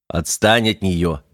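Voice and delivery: slow, firm command; stern order. Acted. Механик велит Бандере отстать от девушки, строго. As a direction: order him to back off, slowly. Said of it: "велел механик".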